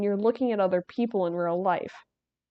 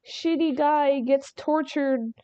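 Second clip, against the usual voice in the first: mock gleeful laugh; 5 semitones higher than usual. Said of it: "which were meant to be".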